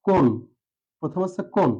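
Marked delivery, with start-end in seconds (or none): 0.1-0.2 কোন alone, with a closed 'o'; teacher isolating কোন, stopped on the n; correct first syllable. Shown as a demonstration. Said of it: "সঠিক উচ্চারণ কি".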